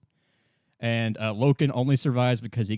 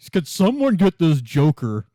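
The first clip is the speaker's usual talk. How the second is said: annoyed yell; 4 semitones higher, 5 dB louder than usual. Retold or imitated. Annoyed radio complaint.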